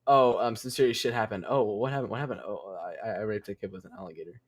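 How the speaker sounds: a mock-awkward slip-in of the bad news; smoother confession. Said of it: "I imagine it probably went a bit more smoother".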